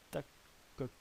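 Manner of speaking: put-on short alien words in a would-be Goa'uld accent. Gamer trying missile names in Goa'uld, clumsy Goa'uld accent. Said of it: "désolé pour mon accent super Goa'uld".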